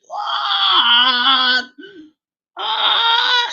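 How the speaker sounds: very high, long wailing scream; reenacted scream. Preacher showing how he screamed at the encounter, wailing. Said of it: "saya menjerit".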